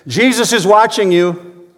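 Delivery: high, slow parrot voice out of the dark; mystery voice. Acted. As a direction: make it sound spooky and unseen. Eerie voice in dark house.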